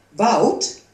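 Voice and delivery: loud, strong call of a name; deep, strong voice. A narrator's reading. The woodcarver calls Wout by name, strong and loud. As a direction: call out powerfully, like a big maker. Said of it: "De stem klonk diep en sterk".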